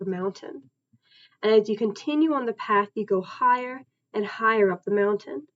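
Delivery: deliberate, evenly phrased scripted narration; guided imagery narration. Acted. Therapist leads a client through an imagined backpacking journey, guided imagery narration. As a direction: read out a guided journey script, pausing between sentences.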